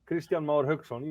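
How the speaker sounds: "Christian Mar Hauksson" with native Icelandic sounds; native name pronunciation. Shown as a demonstration. Guest shows host how to say "Christian Mar Hauksson", native Icelandic pronunciation. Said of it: "How do you pronounce it".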